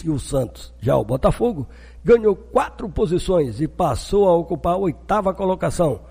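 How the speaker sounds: brisk sports news bulletin; news read. Acted.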